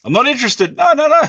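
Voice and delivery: put-on high, loud Indian call center accent. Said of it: "people think you're calling from a call center".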